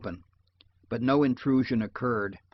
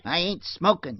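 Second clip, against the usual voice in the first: raised, higher protest; yelled; 6 semitones higher than usual. A narrator's reading. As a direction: yell back in defence. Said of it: "yelled Heppy".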